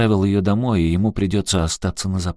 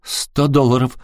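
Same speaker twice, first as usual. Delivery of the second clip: exclaiming; 7 semitones higher than usual. Acted. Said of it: "воскликнула Саманта".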